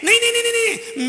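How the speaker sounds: high, loud frightened no; scared boy refusing to hate the forest spirits; panicked denial. Acted. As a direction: protest in a scared rush. Frightened child pleads.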